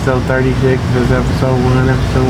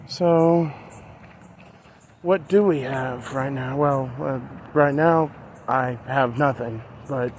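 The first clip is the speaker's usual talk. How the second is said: softer, hushed version of his early vlogging voice; old first-episode vlog voice; 4 dB quieter than usual. Retold or imitated. Vlogger recreating his own first episode, softer and hushed. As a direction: recreate how you sounded in episode one, quieter. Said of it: "I have to talk like this".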